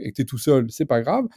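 usual speaking voice

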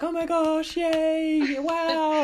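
high, squealing delight; excited cheering. Retold or imitated. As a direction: gush like a thrilled crowd. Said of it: "everyone was like".

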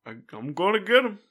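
fighting game battle cry. Pretend. Fighting game character pre-fight line.

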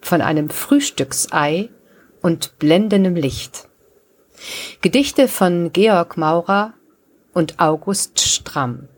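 measured episode intro with clear pauses; podcast title announcement. Acted. Host opens the poetry podcast for listeners, measured announcement. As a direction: announce the titles slowly, phrase by phrase.

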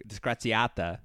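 slow hammy fake Italian accent; mock-Italian rant, slow and loud. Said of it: "My, my fake Italian's not that great".

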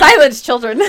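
put-on loud stern teacher hushing kids; kindergarten teacher voice. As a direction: command the class like a teacher. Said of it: "I didn't like being teachered right there".

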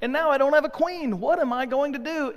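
a king realizing his mistake; dismayed king. Retold or imitated. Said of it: "he goes".

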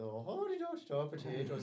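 lightly put-on Irish accent. Shown as a demonstration. Friend demonstrating the joke told to a mission companion, Irish accent. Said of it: "I would do an Irish accent".

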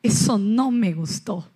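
put-on understated scolding child; mild angry child. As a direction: play the upset three-year-old, half-serious. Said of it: "voz de Piero enojado".

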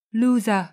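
loser, lose with an extra syllable after Z; over-release the Z of lose into loser; added final vowel. Shown as a demonstration. Teacher shows the mistake to avoid, loser with an added final vowel. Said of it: "vừa không đúng".

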